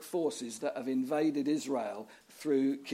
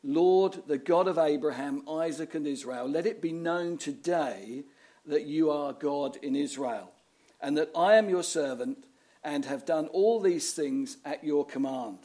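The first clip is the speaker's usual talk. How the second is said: prayer. Retold or imitated. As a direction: call on God solemnly, like Elijah. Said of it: "Elijah stepped forward and prayed".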